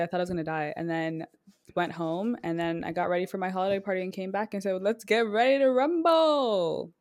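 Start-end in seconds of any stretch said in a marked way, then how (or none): 4.8-6.9 mock announcer. Quoting the boxing announcer call.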